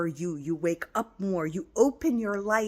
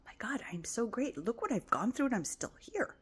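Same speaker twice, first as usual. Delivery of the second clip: whisper; 5 semitones higher, 4 dB quieter than usual. Retold or imitated.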